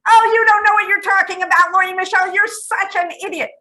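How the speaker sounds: imitating a harsh, insulting inner voice; mock scornful voice. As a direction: spit it out as a contemptuous put-down. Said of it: "He doesn't speak like that".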